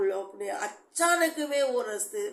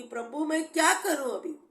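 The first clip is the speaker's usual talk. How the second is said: raised, pleading cry to God, mildly acted; re-live the desperate prayer, voice lifted; retold tearful plea; 4 semitones higher, 5 dB louder than usual. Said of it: "road पे जोर जोर से रो के खड़ी हो गई". (रोते हुए प्रभु से गुहार की नकल)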